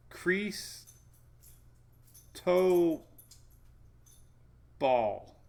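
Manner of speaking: "crease", "toe", "ball" as three separate words, long pauses between; syllable-by-syllable pronunciation. Shown as a demonstration. Sounding out the guide for viewers, syllable by syllable. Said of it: "pronunciation guide".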